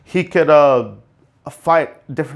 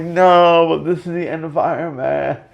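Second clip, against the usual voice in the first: mock heartbroken; 3 semitones higher than usual. Reenacting grief at end of hero.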